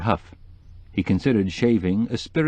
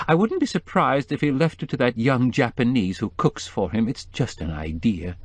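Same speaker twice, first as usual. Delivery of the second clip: tearful woman; 3 semitones higher than usual. Acted. Mrs Starkweather voice.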